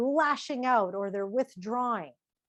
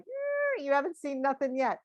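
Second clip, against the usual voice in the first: sudden high squeaky "Eh" then a cocky warning; a wife ready to blow up at her husband; defiant warning; 4 semitones higher than usual. Retold or imitated. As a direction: warn them it's only getting worse. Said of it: "I mean, like".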